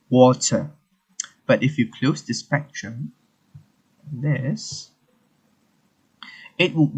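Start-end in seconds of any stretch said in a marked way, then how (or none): 0.1-0.7 British water with a crisp T, falling; British water, ending without an R; British pronunciation. Shown as a demonstration. Teacher modelling the UK word water, British pronunciation. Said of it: "as the pronunciation is like".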